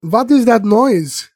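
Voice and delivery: slow, lightly put-on German accent; a hint of a German accent, drawn out slowly. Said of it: "the first person to do the German accent".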